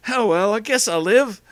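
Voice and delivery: loud, high, slow Australian voice; Australian accent. Acted. Girlfriend shrugging off detention in Australian accent. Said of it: "suddenly became Australian".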